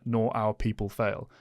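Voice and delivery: slow, measured quote of a vow; solemn film-line delivery. Retold or imitated. Aragorn's promise to dying Boromir, solemn quoted delivery. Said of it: "the line delivery on that".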